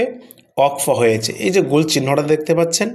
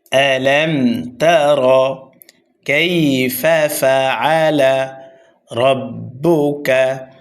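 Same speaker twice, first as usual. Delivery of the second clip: slow deliberate recitation; tajweed recitation; much slower than usual. Shown as a demonstration. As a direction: recite each word slowly and carefully. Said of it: "তাড়াতাড়ি পড়তে হবে".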